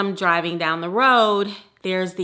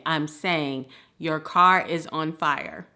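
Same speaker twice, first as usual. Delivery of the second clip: slow, drawn-out words as if for lip reading; slow mouthing; 3 semitones lower, slower than usual. Retold or imitated. Strangers mouthing through car windows, slow and exaggerated. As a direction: spell it out slowly so they can read your lips. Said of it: "if you can't read my lips".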